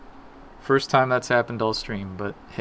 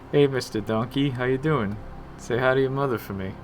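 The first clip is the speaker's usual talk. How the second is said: Wahlberg to a donkey; 2 semitones higher than usual. Retold or imitated. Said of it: "Mark Wahlberg talks to animals".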